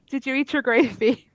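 put-on American accent; British speaker attempting American; best American accent. Shown as a demonstration. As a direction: try a careful American accent. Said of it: "can you do your best American accent".

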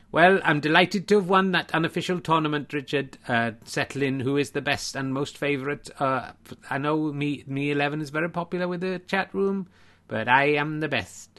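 lightly held mock-Welsh lilt; terrible Welsh accent. Welsh winner delighted with unofficial tournament, terrible Welsh accent. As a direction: boast in a badly faked Welsh accent. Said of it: "the terrible accent you're doing".

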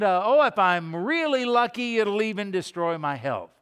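loud, high, gleeful mock reasoning; hammed-up careless sinner; mock sinner's boast. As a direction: lampoon the sinner's self-talk. Mocking sinner's reasoning aloud.

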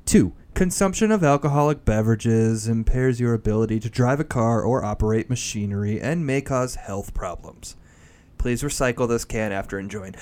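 formal announcer read of the warning; label warning read. Shown as a demonstration. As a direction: read it like an official disclaimer. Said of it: "I'll do the read here".

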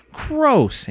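high-pitched squeamish exclamation; disgusted. A narrator's reading. Girl recoils at slime's sucking noise, high disgust. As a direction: shoot the word up in revulsion.

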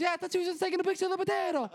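very high, rushed squawk; imitating yelling Italian lady. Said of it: "these little Italian ladies yell".

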